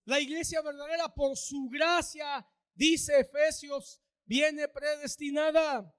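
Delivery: slow, loud and deliberate on "dice Efesios"; preaching shout. Real, not acted. Pastor proclaiming to the church, slow loud shout. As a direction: drive it home to the congregation.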